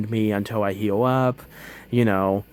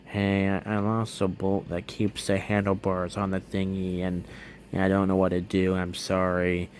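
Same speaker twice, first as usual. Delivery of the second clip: sheepish apology; 3 semitones lower, 5 dB quieter than usual. Retold or imitated. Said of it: "sheepishly saying".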